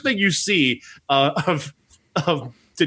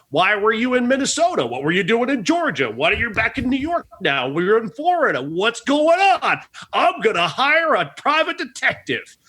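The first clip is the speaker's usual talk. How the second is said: mock nosy manager; 5 semitones higher than usual. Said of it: "just wants to know".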